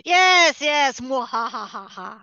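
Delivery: gleeful villain laugh; mad scientist. Pretend. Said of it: "your evil plan came to fruition".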